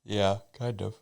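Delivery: yawning while talking; words stretched by a yawn. Real, not acted. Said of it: "why are you yawning?".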